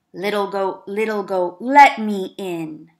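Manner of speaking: a sly wolf asking to be let in; big bad wolf coaxing, loud and slow. Wolf at the door.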